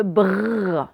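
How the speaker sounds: "brrr" as b plus a long held French r; isolated blend sound. Shown as a demonstration. Teacher showing pupils the learned sound, held br blend. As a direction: hold the r in "brrr" on and on. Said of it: "ce qu'on a appris".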